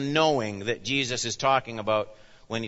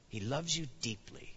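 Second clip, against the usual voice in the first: tender; 13 dB quieter than usual. Shown as a demonstration. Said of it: "Believe it".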